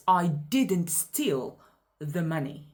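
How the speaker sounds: "steal" stretched out in a slow sentence; slowly, leaning on the word "steal"; "I didn't STEAL the money"; stress on STEAL. Shown as a demonstration. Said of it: "I emphasized steal".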